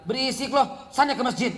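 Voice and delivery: lightly voiced father shooing the kid off; a hint of a weary dad sending the child away; tired father telling the noisy child to leave, mildly. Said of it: "Akhirnya bapaknya bilang".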